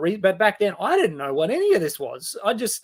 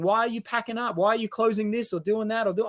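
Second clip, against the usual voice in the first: incredulous friends; 6 semitones higher than usual. Retold or imitated. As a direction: play the doubters pleading with you not to leave. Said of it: "And they're like".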